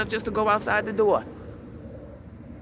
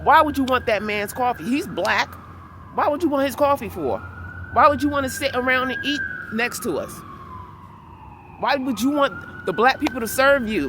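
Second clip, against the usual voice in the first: retold angry telling-off; 4 semitones higher than usual. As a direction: rattle off the rebuke with heat. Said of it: "And I said".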